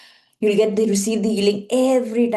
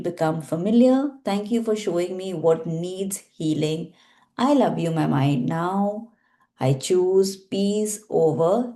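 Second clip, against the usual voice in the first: healing prayer. Acted. Leads a Ho'oponopono healing practice.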